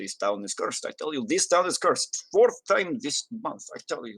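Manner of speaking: muttering, grumbling under the breath. Game narrator voicing a dwarven rower taking the party back to shore, muttering under his breath. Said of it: "muttering under his breath".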